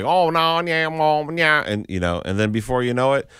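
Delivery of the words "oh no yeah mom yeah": high, loud Southern drawl; Southern accent. Retold or imitated. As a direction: drawl like a new Texan. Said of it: "it's like".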